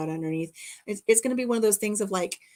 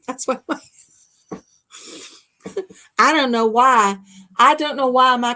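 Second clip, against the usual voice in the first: loud, laugh-filled confession; laughing hard; 4 semitones higher, 8 dB louder than usual. Real, not acted. Reading a viewer's joke about her messy craft room, laughing. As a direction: laugh through the words.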